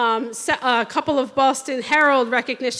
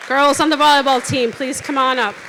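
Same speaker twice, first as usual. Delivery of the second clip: raised, brisk call to the team; 4 dB louder, faster than usual. Real, not acted. Coach introduction done, host summons the volleyball girls, calling out. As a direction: call them up over the room, quickly.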